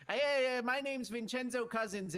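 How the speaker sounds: cool announcement. Acted. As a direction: make it sound cool and dramatic. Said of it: "so I can say something cool".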